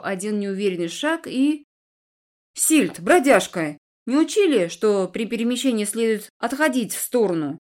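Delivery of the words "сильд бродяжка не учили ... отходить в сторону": grumbling rebuke. Acted. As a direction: scold her for bumping into him. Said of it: "буркнул Эдвин".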